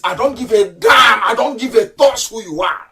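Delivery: angry outburst; defiant shout. Real, not acted. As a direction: throw it back in their face.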